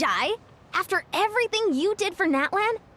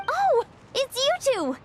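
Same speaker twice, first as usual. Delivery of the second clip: high, slow happy recognition; pleased surprise; 10 semitones higher, slower than usual. Acted. Coach spots the pair arriving, pleasantly surprised. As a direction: greet old friends you didn't expect.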